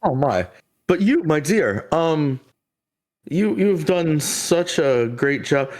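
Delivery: a hint of a kind old figure praising her; NPC voice. A figure thanking the woman who brought the baby, lightly voiced.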